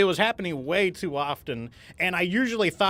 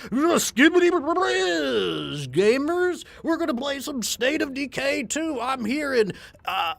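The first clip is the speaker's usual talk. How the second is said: put-on high, slow, shouted kid-streamer hype; Gen Alpha streamer intro; 9 semitones higher, slower than usual. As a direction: ham up a Gen Alpha gamer opening his stream, way up high. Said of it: "what would my State of Decay intro be like".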